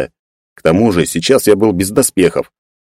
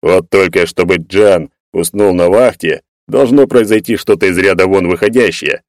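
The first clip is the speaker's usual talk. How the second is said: serious. Acted. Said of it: "серьёзно добавил".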